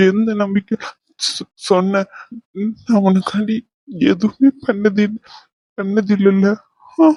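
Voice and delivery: broken up by long halting pauses; tearful. Acted. Partner asks why they are trusted so much, tearful and halting. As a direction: struggle to get the words out through tears. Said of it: "அழுவாத".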